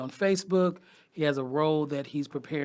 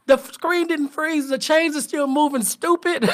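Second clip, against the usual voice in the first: mock angry dad; 10 semitones higher, 9 dB louder than usual. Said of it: "he's like".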